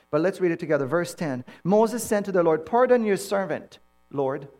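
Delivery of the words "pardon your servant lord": slow, emphatic scripture reading, broken by pauses; exaggerated humility. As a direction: plead your unworthiness with heavy emphasis. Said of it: "it's called exaggerated humility".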